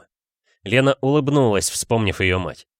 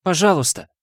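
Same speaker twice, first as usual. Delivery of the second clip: higher, shaky please; trembling plea; 9 semitones higher than usual. A narrator's reading. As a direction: whisper of desperate begging. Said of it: "У Тайки дрожали руки".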